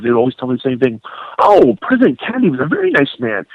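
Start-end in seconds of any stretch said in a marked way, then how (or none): 1.4-3.5 much higher, sing-song rote recital; mock rote recital. Host mimics retired agents reciting from cue cards. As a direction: parrot it like reading a cue card. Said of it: "like they were reading cue cards".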